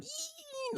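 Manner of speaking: tiny high-pitched squeal of glee; excited squeal. Retold or imitated. Copying a little girl from a gif, thin excited squeal. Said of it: "like, she's so excited".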